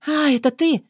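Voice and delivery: put-on high girl's voice, breathed out in relief; relieved exhale. A narrator's reading. Caught girl sees it's only Artyom, relieved. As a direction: let the fear go out of you. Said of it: "облегчённо выдохнула она".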